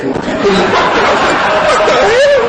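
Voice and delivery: high, drawn-out shocked cry; alarmed disbelief. Retold or imitated. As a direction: stretch it out in comic alarm. Reacting as her lip drops.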